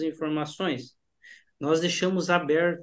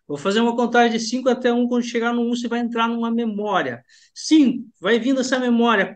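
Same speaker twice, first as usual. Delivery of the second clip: building hypnotic count; 3 semitones higher than usual. Shown as a demonstration. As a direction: lead the count, pushing the voice up and on. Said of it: "vou provocando e mudando a minha entonação". (contagem hipnótica com entonação crescente e mais forte)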